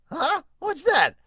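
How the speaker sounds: put-on a startled kid captain going "huh?"; high Luffy voice. Luffy voiced reading manga.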